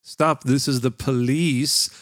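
slow, deliberate Northern American delivery; northern US accent. Shown as a demonstration. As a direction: say it like a Northern US cop. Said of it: "במקום אחד".

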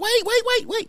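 sudden interruption. Real, not acted.

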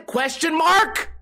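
mock question rise, slow and high; questioning inflection. Shown as a demonstration. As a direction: stretch it out as an unsure question. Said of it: "that weird inflection when you're asking a question".

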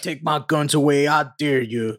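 a hint of a defiant gun nut; mock gun-owner dare. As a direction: dare them, lightly voiced.

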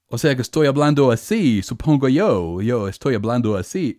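imitating a returned missionary's gringo Spanish; mock American-accented Spanish. Shown as a demonstration. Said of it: "hablas igual a un misionero retornado".

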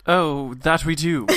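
put-on slow, slightly English-accented reply; caught English accent. Flick agrees with Hawks, accidentally in an English accent. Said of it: "I'm sorry, I've caught your accent".

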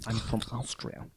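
put-on slow Austrian accent; unhurried Austrian drawl with mouth sounds; Christoph Waltz Austrian accent. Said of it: "That's my impression of Christoph Waltz".

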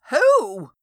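high sharp shout of a frightened friend; startled scream. A narrator's reading. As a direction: fling the question out. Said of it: "screamed Veenie in return".

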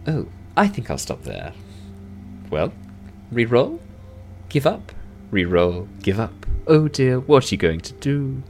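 light elf voice, lifting on each taunting question; needling elf. Acted. Elf to losing dwarf over dice, teasing. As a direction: dangle the choice, then rise high in mock sympathy. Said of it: "The elf rolls again".

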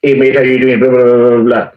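rattled-off imitation of Aussie chat; very fast Aussie. Mimicking an Aussie on the phone, very fast. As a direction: imitate a quick Aussie, dissolving into babble. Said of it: "It's just very fast".

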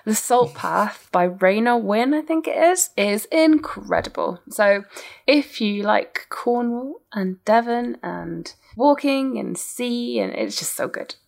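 slow, savouring book recommendation in podcast style; podcast guest voice. Real, not acted. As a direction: linger over each item like a podcast guest. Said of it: "the way that you delivered that line".

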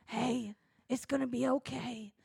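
soft reassuring oracle voice; soft universe voice. Acted. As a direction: lull them like the universe itself. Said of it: "This is the universe speaking to you".

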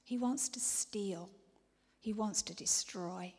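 hushed, urgent whispering warning; intense whisper. Acted. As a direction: whisper it like a dark secret.

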